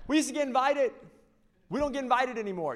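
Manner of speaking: high, loud hammed-up British wife voice; a hammed-up posh British complaint; mock British wife. Wife complaining to Noah in a mock British accent. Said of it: "Noah and his wife are British".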